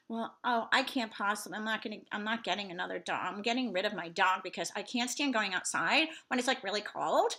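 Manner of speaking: mock a pampered mom griping; whiny soccer mom.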